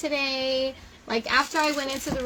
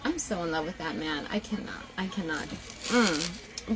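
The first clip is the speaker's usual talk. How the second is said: soft and lovestruck; 6 semitones lower, 6 dB quieter than usual. Real, not acted. Overwhelmed with love.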